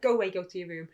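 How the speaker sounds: retold parental order; sternly dismissive parent. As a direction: send the child off firmly. Mum sends child to room.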